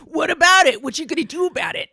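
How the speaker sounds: loud, high, fast playful defiance; defiant mock challenge. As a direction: throw it back at him, daring. Retold defiant challenge to teacher.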